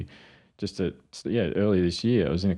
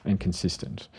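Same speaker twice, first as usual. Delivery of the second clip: repeating the list. Retold or imitated.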